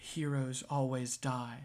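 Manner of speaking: hushed half-whisper. Voicing someone hidden in a crowd after a fight: half-whispering from a crowd. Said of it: "you hear a whisper from the crowd going".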